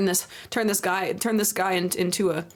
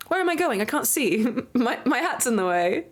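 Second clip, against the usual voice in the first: pet voice; 4 semitones higher than usual. Pretend. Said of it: "And he goes".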